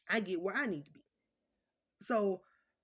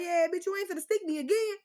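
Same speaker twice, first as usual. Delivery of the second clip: high, loud mock yell at the nurse; retold telling-off; 9 semitones higher, 7 dB louder than usual. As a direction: snap it at the nurse who missed the vein.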